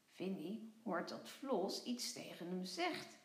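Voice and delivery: calm storybook reading voice; children's story narration. A narrator's reading. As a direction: read it gently to young kids.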